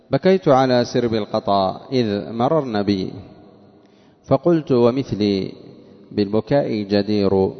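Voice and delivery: slow, measured verse reading; poetry recitation. A narrator's reading. Teacher reads the poet's verse to students, slow recitation. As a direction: draw out the long vowels of the verse.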